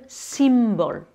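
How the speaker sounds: "symbol" in English with a held M; sounded English M. Shown as a demonstration. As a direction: close the lips firmly on the M of "symbol". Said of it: "ils vont prononcer ce N ou ce M". (« symbol » en anglais, M bien prononcé)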